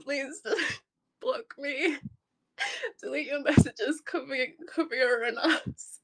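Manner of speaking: distraught, halting through tears; real tearful bewilderment; crying. Real, not acted. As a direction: sob between broken phrases. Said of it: "I'm just crying".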